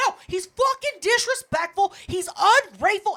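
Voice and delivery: worked-up mock yell; retold yelling. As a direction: reenact ranting in a restaurant. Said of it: "And I'm yelling".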